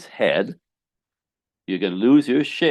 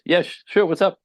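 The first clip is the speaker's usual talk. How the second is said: curious reply; 10 semitones higher, 3 dB louder than usual. Retold or imitated. Curious partner answering.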